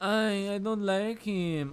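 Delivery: slow, drawn-out, whiny put-on Spanish accent. Retelling a woman on a show complaining about a man: imitating a whiny spanish accent. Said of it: "my my whiny Spanish accent".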